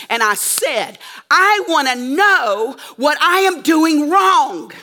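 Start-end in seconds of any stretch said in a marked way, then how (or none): 1.3-4.7 demanding. Retold or imitated. Confronting the judge in the ring.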